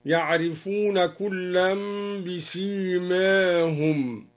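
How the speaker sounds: بسيماهم with its last long a slightly tilted toward e; half-tilt the alif of بسيماهم, between "aa" and "ee"; taqlil on بسيماهم. Shown as a demonstration. Teacher shows al-Duri's reading, slight e-colour in بسيماهم. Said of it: "وكذلك قلل قوله تعالى".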